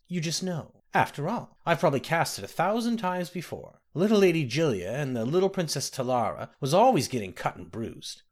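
a hint of a kindly old woman; old nursemaid. The speaker voiced an old nursemaid.

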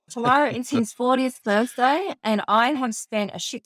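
the memory gets to her as she says it; emotional. Real, not acted. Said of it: "God, I'm feeling emotional thinking about it".

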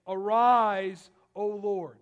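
loud rallying call to God; shouted call for God to rise; battle cry. Acted.

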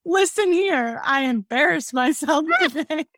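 high, slow, lightly voiced boy admitting his mistake; mock kid confession. Boy telling parents about his day, sheepish and slow.

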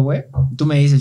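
ordinary delivery

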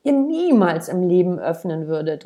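put-on child yelling at his parents; angry shout. A narrator's reading. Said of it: "rief er".

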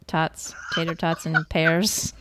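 slow pun setup. Shown as a demonstration. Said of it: "Get it?".

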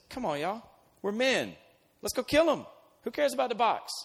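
high, loud rousing call to fight; rallying cry. Retold or imitated. Philistine soldier rallying the frightened men, high rousing shout. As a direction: pump the men up, rising to a yell. One guy rallies the troops.

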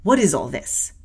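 acted imperious question; peremptory. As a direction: demand an answer as the one in charge. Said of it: "demanded another voice peremptorily".

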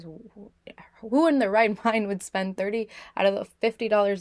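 hushed disbelief breaking into a laugh; incredulous whisper. Retold or imitated. Recalling her sister's spending, a laughing disbelieving whisper.

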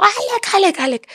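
high cry dropping away breathlessly; retold muffled cries. Mother calling son while mouth is covered, retold stifled cry. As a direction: imitate calling a name while being stifled. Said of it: "Empecé a gritarle".

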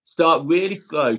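slow, deliberate start. Shown as a demonstration. Guest urges new trainers to start slow, slow emphatic. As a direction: drag it out to stress the point. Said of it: "And that's why I say".

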